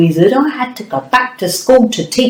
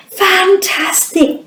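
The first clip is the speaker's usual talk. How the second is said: praise; 11 semitones higher, slower than usual. Acted. Praising child's answer.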